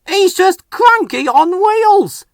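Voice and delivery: high, slow sneering voice; mocking James. A narrator's reading. Engine mocking Harvey to the others, high and slow. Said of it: "said James".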